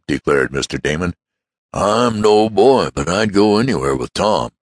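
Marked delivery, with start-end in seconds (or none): 1.7-4.5 eager insistence. Acted.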